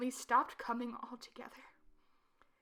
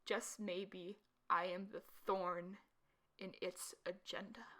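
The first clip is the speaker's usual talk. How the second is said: breathy secret whisper; 3 semitones lower, 6 dB quieter, slower than usual. Acted. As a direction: whisper it to yourself. Secretive conclusion.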